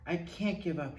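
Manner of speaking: plain reading voice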